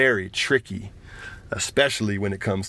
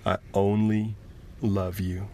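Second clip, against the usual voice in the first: tender; 4 semitones lower, 3 dB quieter than usual. Acted. Mother comforts her son.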